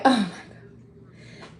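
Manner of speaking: breathed out slowly, taken aback; stunned hush. Retold or imitated. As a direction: let the news knock the air out. Hearing his friend died.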